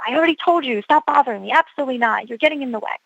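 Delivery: imitating a dismissive doctor brushing her off; disdainful. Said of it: "with disdain and says".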